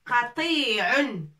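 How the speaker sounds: "Qati'un" said with a firm qaf and a light ain; teacher modelling "Qati'un" for students; Arabic model word. Shown as a demonstration. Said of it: "qaf avec deux points".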